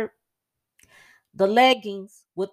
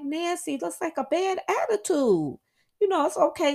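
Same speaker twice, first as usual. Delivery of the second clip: mock friend's rebuke; 11 semitones higher than usual.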